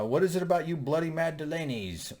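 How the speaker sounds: mock British accent, tongue in cheek. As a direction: play a bad British accent for laughs. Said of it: "sorry, I know my British accent was perfect there".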